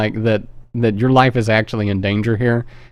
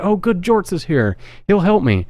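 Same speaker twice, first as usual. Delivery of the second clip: put-on high relieved girl voice, much higher; 8 semitones higher than usual. Girl thinks her friend has arrived, relieved and high. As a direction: imitate her relief that help has come. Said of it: "She's like".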